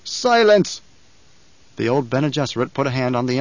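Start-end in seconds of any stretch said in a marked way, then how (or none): 0.0-0.8 high, loud furious roar. A narrator's reading. Emperor silencing the Baron with a loud roar. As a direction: shout him down.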